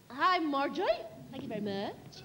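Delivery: a hint of the diva's Brooklyn tone; impression of a famous singer. Hostess greets the singer at the party, a hint of Brooklyn. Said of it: "the wonderful Barbra Streisand".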